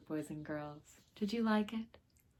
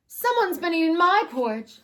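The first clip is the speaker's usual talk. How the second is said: higher, louder wail of a mama bear; 9 semitones higher, 7 dB louder than usual. Acted. Mama bear wails over her porridge, high and loud. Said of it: "wailed Mama Bear".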